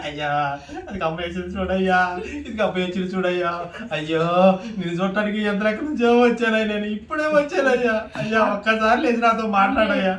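loud, high keening lament; mock funeral wailing. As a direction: imitate a mourner wailing full force over the body. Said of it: "ఎట్ట చేస్తారు తెలుసా?".

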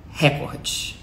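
recorde whispered with the stress on RÉ; mock wrong stress. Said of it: "insistam em falar". (recorde sussurrado, tônica no ré)

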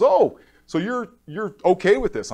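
lightly voiced nurse, drawn out; surprised nurse. Nurse testing his nerve.

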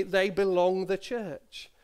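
slow BELONG running straight into "the church"; granny's quaint phrase. Retold or imitated. Grandchild quoting how granny used to talk, slow and deliberate. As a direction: stretch BELONG, leaving out "to". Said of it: "that's how she used to talk".

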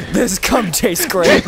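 giggling through words; laughing. Real, not acted. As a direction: laugh while saying it. Joking while laughing.

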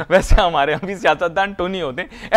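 real laugh breaking into a joking remark; amused aside. Real, not acted. Guest teasing about politicians at home, amused and chuckling. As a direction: chuckle into the words.

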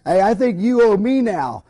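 lightly voiced chatty woman, bubbling over; excited friend. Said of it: "she says".

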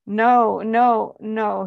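refusing no. Acted. Son refusing mother.

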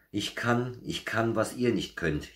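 high-pitched, gleeful little show-off; triumphant boast in a storybook reading; jubilant boasting. A narrator's reading. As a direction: crow it proudly, pitched well up. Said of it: "jubelte Berti Bär".

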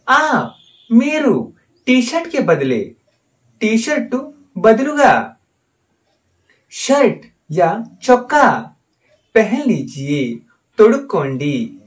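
slow, deliberate dictation; slow teaching. Shown as a demonstration. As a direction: spell it out slowly for learners. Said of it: "teacher models sentence slowly". (धीरे धीरे समझाते हुए)

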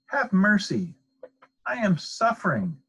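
high, pleading wail. A narrator's reading. Suffering fox begging at the dentist's door, wailing. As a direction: beg for mercy, pitched high. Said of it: "the fox wailed".

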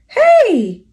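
loud, high call. Acted. Moose calling up to the guests on his antlers, loud and high. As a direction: shout up to the guests on top. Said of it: "he called out".

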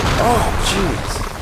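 sudden high, loud exclamation; startled yelp. Real, not acted. Player surprised by the biggest weapon, startled and high. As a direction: cut in with a startled, high-pitched cry. Startled by enemy attack mid-sentence.

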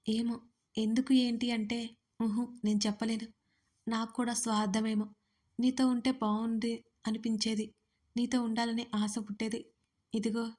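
a soft sweet confession in his arms; sweet tender voice. Acted. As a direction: murmur it tenderly to him. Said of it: "మధురమైన స్వరంతో చెప్తుంటే".

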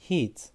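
Heat with a stretched ee, hiiit; long ee vowel. Shown as a demonstration. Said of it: "İ'yi uzatıyoruz". (Heat, i sesini uzatarak)

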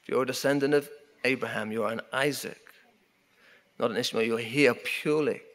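usual speaking voice

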